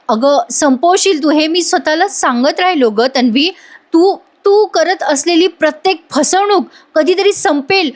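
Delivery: mild tearful reproach to the wife; retold crying plea. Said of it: "Ashwin रडून म्हणत असतो".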